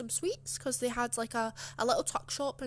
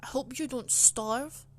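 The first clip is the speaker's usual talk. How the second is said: nasty teacher's jab; 6 dB louder, slower than usual. Retold or imitated. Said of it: "she said that very nastily".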